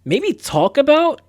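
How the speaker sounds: drawn-out doubtful question; slow skeptical reading; incredulous. Real, not acted. Reading the quiz aloud to chat, slowly incredulous.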